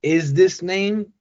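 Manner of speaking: slow high rise on "Is this name?"; stiff name check. Shown as a demonstration. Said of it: "instead of, you know, asking".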